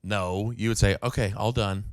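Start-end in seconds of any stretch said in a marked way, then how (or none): 1.0-1.8 softer, lower mock Asian accent. Shown as a demonstration. Correcting the friend's impression, lightly mocked Asian accent. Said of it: "You're doing it in an Asian accent".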